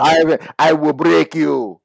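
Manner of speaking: slow menacing Russian boxer; lightly voiced Russian villain; Ivan Drago. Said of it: "Ivan Drago".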